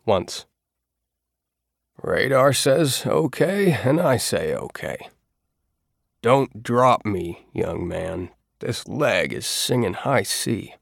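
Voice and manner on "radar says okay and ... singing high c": put-on pained old man. Bowditch in pain, voiced.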